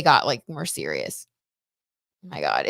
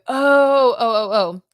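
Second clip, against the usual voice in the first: excited; 5 semitones higher, 8 dB louder, slower than usual. Real, not acted. Recognizes a chat name excitedly.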